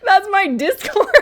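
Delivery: can't stop cracking up at her own joke; laughing. Real, not acted. Creator laughing at her own Discord bio, high and breathless.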